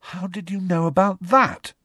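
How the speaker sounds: high, startled demand. A narrator's reading. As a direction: demand an answer in alarmed surprise. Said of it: "Harry demanded".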